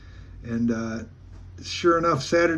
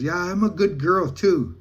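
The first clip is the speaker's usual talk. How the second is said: slow, higher-pitched imitation of her; playful self-praise; 4 semitones higher than usual. Woman answering the teller playfully, retold playful self-praise. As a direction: imitate her teasingly, drawn out and lifted.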